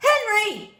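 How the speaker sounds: high, loud call of a name; father calls his son out of the puddle; father yelling. A narrator's reading. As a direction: call the boy sharply from afar. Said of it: "And he yelled".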